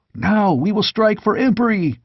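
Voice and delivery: rally them to war; battle yell. A narrator's reading. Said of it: "yelled another".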